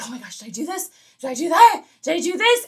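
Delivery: mock fretting. Retold night-time worrying thoughts.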